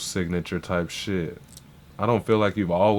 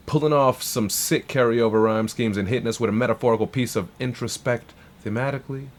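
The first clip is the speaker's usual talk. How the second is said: hype shoutout; 3 semitones higher, 4 dB louder than usual. Real, not acted. Hyping the artist.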